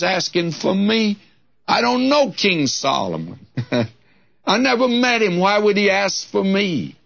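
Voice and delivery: put-on astonished girl. Girl astonished at the king's call.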